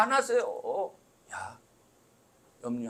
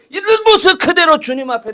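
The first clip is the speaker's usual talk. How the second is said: loud preaching exhortation; loud sermon exhortation; preaching at full force; 7 semitones higher, 14 dB louder than usual. Acted. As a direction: drive it home to the congregation. Preaching climax repeated.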